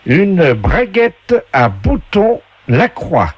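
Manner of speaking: very slow, high prize announcement; game show announcer. Acted. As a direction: draw out the item like a TV game host. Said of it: "la voix du jeu".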